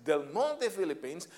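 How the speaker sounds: lightly voiced MC calling the winner; MC announcing. MC calling out the first company, light emcee voice. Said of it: "when the M C says".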